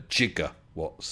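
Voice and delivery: "gigawatts" said as jigga-watts; soft G. Shown as a demonstration. Asking about the film's version, "gigawatts" with soft G. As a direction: begin "gigawatts" with a J sound. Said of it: "it's a mispronunciation".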